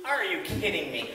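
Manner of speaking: amused, chuckling through the words; telling the audience how absurd it got; laughing disbelief. Real, not acted. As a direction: shake your head and laugh at the bad luck. Laughing comment on driver training.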